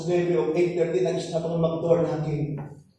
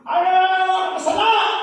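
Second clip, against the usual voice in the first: surprised question; 10 semitones higher, 5 dB louder, faster than usual. Retold or imitated. Old woman reacts to being called sinner.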